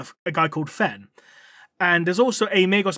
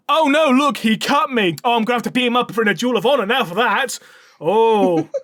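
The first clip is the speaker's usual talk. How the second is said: higher and louder, hammed-up fake hurt; mock outrage; 4 semitones higher, 3 dB louder than usual. Gorn leaning into the knife, hammed-up fake hurt. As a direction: overplay the wound with glee. Gorn fakes being cut.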